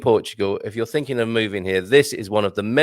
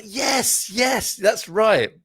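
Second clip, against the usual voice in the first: waiter voice; 10 semitones higher, much slower than usual. Retold or imitated. Continuing the high reply.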